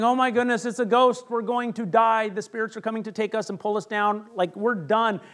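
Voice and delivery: frightened disciples, somewhat hammed-up; mock alarm at a ghost; panicking. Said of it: "They're panicking".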